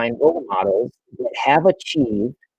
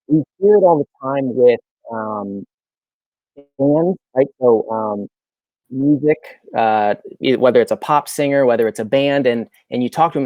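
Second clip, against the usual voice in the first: muffled. Real, not acted. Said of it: "your audio is muffled".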